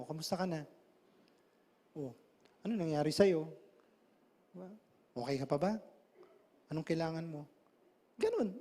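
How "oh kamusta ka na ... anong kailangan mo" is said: compassionate. Shown as a demonstration. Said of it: "lagyan mo ng compassion".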